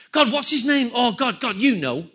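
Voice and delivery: a touch of exasperation, groping for a name; acting out someone stuck mid-prayer; frustrated fumble for a forgotten name; mock frustrated prayer. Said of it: "You're frustrated".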